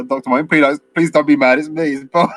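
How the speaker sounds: hammed-up plea not to be angry; imitating pleading. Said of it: "He's like".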